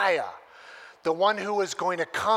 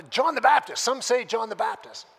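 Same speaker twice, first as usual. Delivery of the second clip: hesitant disciple; 6 semitones higher, 7 dB louder than usual. Retold or imitated. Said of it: "takes some courage and says".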